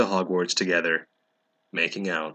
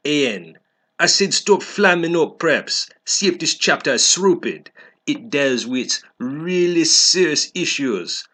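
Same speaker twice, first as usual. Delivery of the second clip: put-on a teen author's note read a little higher and louder; snotty author voice; 4 semitones higher, 4 dB louder than usual. The author scolds her critics, mock bratty rant. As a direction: huff at the haters like a bratty fanfic writer.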